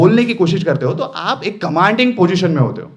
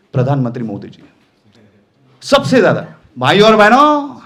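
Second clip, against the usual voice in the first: Modi-style rally address; 3 dB louder than usual. Retold or imitated. Trainer imitating Modi addressing a rally, loud and stretched. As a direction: boom it out like a rally speaker to the crowd. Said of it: "stress डाल दिया powerful word".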